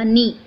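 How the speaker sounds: "नी" starting straight on N; silent K. Shown as a demonstration. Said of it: "सही इसका उच्चारण बनेगा नी".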